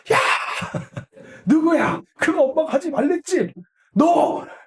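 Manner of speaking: high, loud, angry shouting.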